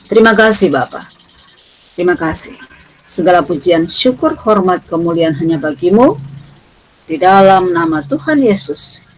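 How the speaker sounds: earnest prayer voice; praying aloud to open class. Real, not acted. (suara doa yang khusyuk)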